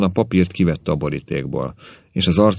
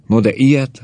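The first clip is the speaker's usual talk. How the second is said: high, louder cry of wonder; amazed; 8 semitones higher, 5 dB louder than usual. A narrator's reading. Janovic learning about the boat, amazed. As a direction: marvel at it, voice lifted well up. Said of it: "csodálkozott Janovic úr".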